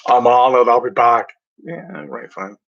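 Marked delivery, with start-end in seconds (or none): 0.1-1.3 loud mock Austrian accent, louder; a clumsy Austrian accent in a loud voice; bad Arnold impression. Host mocks how people imitate Arnold, mock Austrian accent. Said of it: "I can't do the accent".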